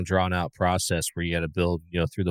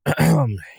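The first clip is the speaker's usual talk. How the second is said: throat clearing; 8 semitones higher, 6 dB louder than usual. Real, not acted. Throat clear before proclamation.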